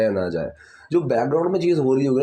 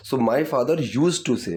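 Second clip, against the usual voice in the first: slow dictation; much slower than usual. Shown as a demonstration. Teacher dictates model sentence.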